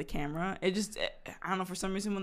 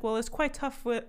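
put-on British accent; 5 semitones higher than usual. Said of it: "And she's like".

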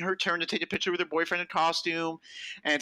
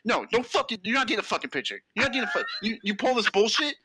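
higher, harsh scolding hiss; angry scolding; 5 semitones higher, faster than usual. Retold or imitated. Boyfriend berating girlfriend, ending in an angry whisper. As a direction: berate her fiercely.

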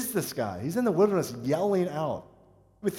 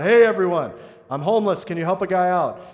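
mock shout of a subway beggar, louder; imitating a yell; 2 semitones higher, 6 dB louder than usual. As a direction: call out to the whole train car, loud but playful. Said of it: "a guy stood up and started yelling out".

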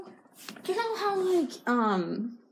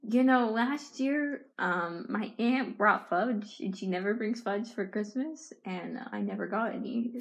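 slow, softer storytelling; slower, quieter talk for the viewers; 3 semitones lower, 4 dB quieter, slower than usual. Real, not acted. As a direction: drag it out gently. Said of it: "Perfect tone".

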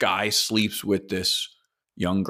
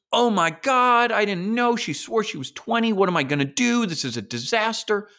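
mock panic; 9 semitones higher than usual. Guest learning she's sixteen, mock panic. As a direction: play a guy whose world just fell apart.

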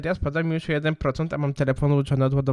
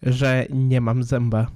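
lisping through a gap; missing front tooth; 3 semitones lower, slower than usual. Real, not acted. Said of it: "jak będę se plenił".

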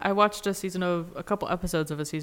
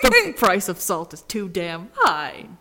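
mock salt executive; 6 dB louder, slower than usual. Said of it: "And they're like".

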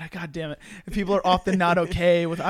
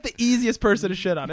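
normal talking voice

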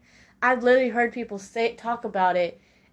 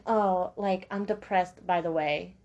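soft offhand mock announcement, quieter; mocking casual confession; 3 semitones lower, 5 dB quieter, slower than usual. Friend telling you mid-conversation, mock offhand and quiet. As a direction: toss it off quietly like it's nothing. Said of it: "in mid-conversation saying".

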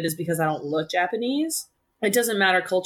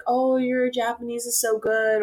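mock-impressed stranger, higher and slow; imitating people gushing over her Japanese; 6 semitones higher than usual. Mixed-race guest mimicking strangers who praise her Japanese, mock-impressed. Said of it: "people are like".

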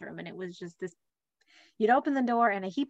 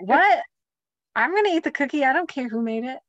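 raised, higher, fed-up voice; loud mock protest; 4 semitones higher, 5 dB louder than usual. Brian insists on eating the cookie, raised mock protest. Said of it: "He's like".

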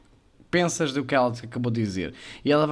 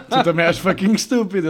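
laughing; 3 semitones higher, 5 dB louder than usual. Real, not acted. Laughing while teasing.

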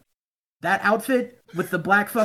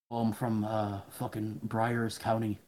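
imitating sad fan; 8 semitones lower, 10 dB quieter than usual. Mimicking the sad Dublin guy.

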